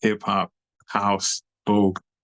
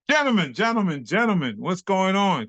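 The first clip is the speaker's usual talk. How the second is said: higher, sing-song peacemaker; Maurice Hines; 7 semitones higher than usual. Retold or imitated. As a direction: call out as if breaking up a spat. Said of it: "Maurice Hines, Gregory Hines' older brother, is walking by".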